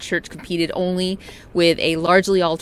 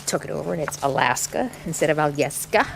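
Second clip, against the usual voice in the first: Alyeska in a mock Russian accent, al-YES-ka; terrible Russian accent. Joking about Alaska's old Russian name in a bad Russian accent. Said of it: "That's a terrible Russian accent".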